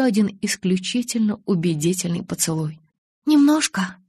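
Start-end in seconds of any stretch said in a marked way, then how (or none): 3.2-4.0 sheepish admission. A narrator's reading. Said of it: "призналась я".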